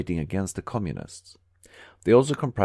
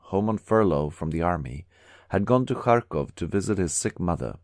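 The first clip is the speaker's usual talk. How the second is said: ordinary delivery, nothing marked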